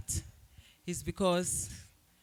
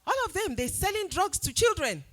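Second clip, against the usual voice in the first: mimicking a prejudiced man, raised pitch; mock the man's sweeping claim, pitched up; quoting the bigot; 9 semitones higher, 5 dB louder than usual. Retelling the bookshop stranger's slur in a higher voice. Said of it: "he was saying".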